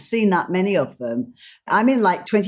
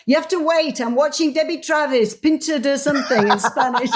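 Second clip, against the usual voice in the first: higher, put-on Spanish woman calling from another room; 7 semitones higher than usual. Spanish woman calls through the curtain, pitched higher, in a put-on voice. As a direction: call out like an annoyed woman busy with her show. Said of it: "this woman in Spanish calls".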